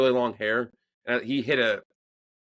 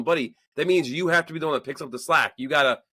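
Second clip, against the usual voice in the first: higher-pitched exasperated dad, retold; exasperated explaining; 4 semitones higher than usual. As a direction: act out trying to get through to your kid.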